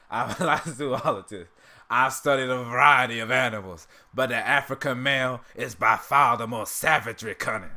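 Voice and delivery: hammed-up cartoon character monologue; Uncle Ruckus impression. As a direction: declaim it as a put-on cartoon character. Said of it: "that's kind of how he does it".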